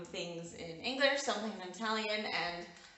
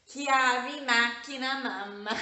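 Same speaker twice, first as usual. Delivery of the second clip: put-on higher, louder little girl voice, slowly; toddler voice; 6 semitones higher, 8 dB louder, slower than usual. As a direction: play the toddler proudly naming mom's car keys. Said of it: "and said".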